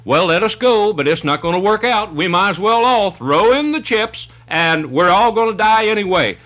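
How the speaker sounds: hammed-up Thomas shrugging it all off; negative attitude. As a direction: play the doubter who has given up. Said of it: "Here is a negative attitude".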